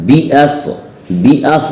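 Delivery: बिअस with a thick, full S; heavy Saad. Shown as a demonstration. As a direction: press a dark, emphatic S in बिअस. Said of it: "साद मोटा". (बिअस में साद मोटा)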